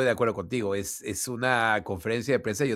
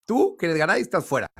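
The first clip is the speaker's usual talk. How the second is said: imitando a Florentino; 6 semitones higher than usual. Retold or imitated. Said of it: "tú le dices al oído algo".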